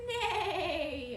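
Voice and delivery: loud, wavering horse whinny; long, shaky neigh falling away. Shown as a demonstration. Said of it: "what sound does a horse make".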